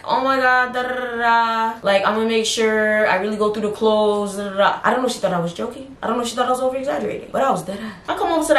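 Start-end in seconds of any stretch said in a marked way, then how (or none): 0.0-4.8 mom voice. Retold or imitated. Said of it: "She's like".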